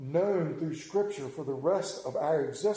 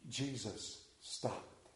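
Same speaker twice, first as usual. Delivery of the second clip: hushed dramatic; 7 semitones lower, 14 dB quieter, much slower than usual. Acted. Dramatic pause in sermon.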